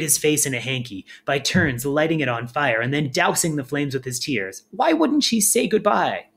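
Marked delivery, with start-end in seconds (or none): 4.7-6.3 wailing. A narrator's reading. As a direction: wail it out like a lost child. Firion weeping into hanky.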